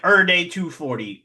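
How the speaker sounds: "er day" with every shrunk to er; deliberate slurred "er day". Shown as a demonstration. Streamer saying his catchphrase, deliberate "er day". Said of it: "That's on purpose".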